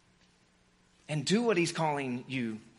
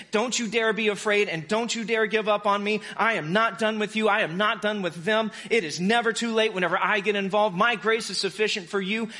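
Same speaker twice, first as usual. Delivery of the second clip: forceful reassurance, higher-pitched and insistent; Jesus, lightly voiced; 4 semitones higher than usual. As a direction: grab them by the shoulder with the words. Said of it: "you hear his voice saying".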